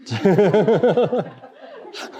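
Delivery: high bright laugh after blaming her; playful teasing chuckle. Real, not acted. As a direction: laugh at your own joke.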